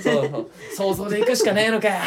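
lightly voiced tough pilot. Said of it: "みたいな".

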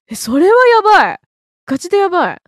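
shocked exclaim. Real, not acted. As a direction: blurt out in disbelief. Shocked by Korean spice standard.

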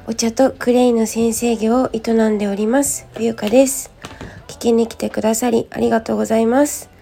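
just-woke-up hoarse voice; rough, raspy morning voice. Real, not acted. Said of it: "声がガラガラなんですけれども".

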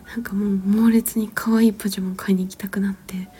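ordinary talk, nothing marked

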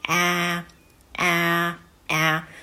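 each あー a long vowel halfway from a to e; A sound between a and e. Shown as a demonstration. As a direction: say あー so it sounds like a and e at once. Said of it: "えにも聞こえるっていう音".

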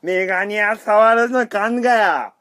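名古屋弁で芝居がかって怒鳴る; mock angry Nagoya dialect. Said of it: "それちょっと僕も怒りたいんで". (名古屋弁で大きく高くゆっくり怒る)

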